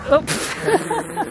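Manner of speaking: sudden high yelp of surprise; tripping on the path, startled. Real, not acted. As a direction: caught off guard mid-step, voice leaps up. I totally just tripped on that.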